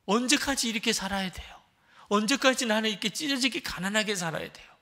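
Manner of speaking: high, loud, pleading cry to God; lamenting prayer. Retold or imitated. Poor student crying out to God in despair, pleading loudly. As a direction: beg God desperately, voice straining up. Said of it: "탄식의 기도가 드려지더래요".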